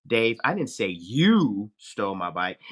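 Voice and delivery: slow, leaning on "you"; emphasize "you", slowly; stress on YOU. Shown as a demonstration. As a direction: put the weight on "you" in "you stole my bike". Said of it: "say the same sentence three ways".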